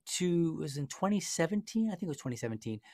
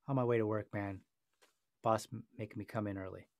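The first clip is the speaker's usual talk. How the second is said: low, soft, laid-back answer; casual reply; 6 semitones lower, 8 dB quieter than usual. Pretend. Driver explaining himself to a friendly officer, casual. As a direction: answer easily, no tension.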